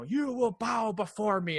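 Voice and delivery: slow, menacing demon voice; demon's booming threat. Retold or imitated. Retelling a Buffy demon rising from the floor, slow and menacing. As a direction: intone it like a rising monster. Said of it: "and he goes".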